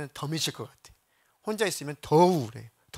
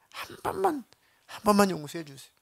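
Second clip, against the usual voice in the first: a voice cracking up high on 한 번만; repentant plea; 6 semitones higher than usual. Retold or imitated. Girl repents before God, a pleading high plea. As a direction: beg forgiveness, repenting. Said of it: "회개라는 걸 했어요".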